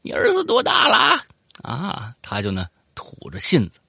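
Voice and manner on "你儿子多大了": high, strained near-shout at the snake; asking the snake about its son in a high panic; panicked small talk. Retold or imitated. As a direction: blurt it out in a high panic, voice cracking. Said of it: "我说".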